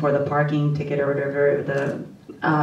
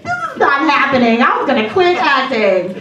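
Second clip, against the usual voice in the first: overwhelmed; 7 semitones higher, 5 dB louder than usual. Retold or imitated. Overwhelmed hearing cast list.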